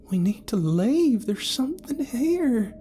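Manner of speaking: slow, whispered warning; urgent whisper. A narrator's reading. Carol whispering an urgent warning to Felton. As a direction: warn them under your breath.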